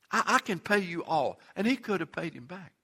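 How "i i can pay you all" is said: soft, pleading promise to pay; quiet begging. Acted. Fellow servant begging at his feet, soft plea. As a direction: plead it softly, almost under breath. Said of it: "he begged him".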